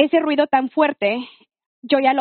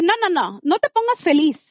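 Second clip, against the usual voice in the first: higher-pitched quick rebuff; retold protest; 4 semitones higher than usual. Woman stopping her happy boyfriend short, insistent protest. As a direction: cut off his joy, voice raised in pitch.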